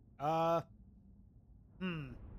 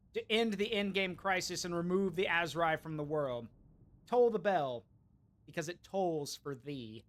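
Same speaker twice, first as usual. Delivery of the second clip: talking through mouthful of popcorn; munching popcorn. Real, not acted. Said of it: "Sorry, I'm eating popcorn".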